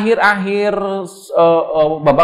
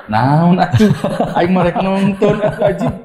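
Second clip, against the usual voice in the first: laughing protest. Retold or imitated. Retelling his laughing protest to officials.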